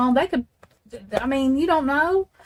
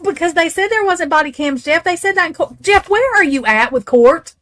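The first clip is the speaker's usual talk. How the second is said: raised, high-pitched insistence; insistent challenge; 7 semitones higher, 4 dB louder than usual. Real, not acted. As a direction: press the point, voice pitched up. Pressing Jeff about court claims.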